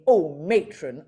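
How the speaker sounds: brief camp Carry On catchphrase, lightly done; a quick hint of the camp comic; Kenneth Williams. Recalling the voice box catchphrase, lightly camp Kenneth Williams. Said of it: "Kenneth Williams saying".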